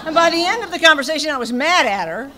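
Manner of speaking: laughing. Real, not acted. Laughing while retelling.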